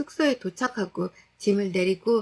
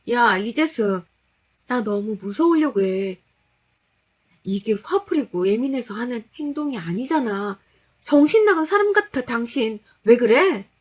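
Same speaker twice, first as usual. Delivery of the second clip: louder, frightened demand; scared confrontation; 2 semitones higher, 4 dB louder than usual. Acted. Wife confronting her crazed husband, scared and loud. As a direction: shout at him out of fear.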